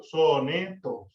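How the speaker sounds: "soneto" stretched out syllable by syllable; división en sílabas. Shown as a demonstration. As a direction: break "soneto" slowly into so-ne-to. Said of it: "podemos dividir una palabra en sílabas". ("soneto" dicho despacio, separado en sílabas)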